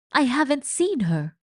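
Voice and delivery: loud angry shout. A narrator's reading. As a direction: yell it out in denial. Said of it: "Luis was shouting".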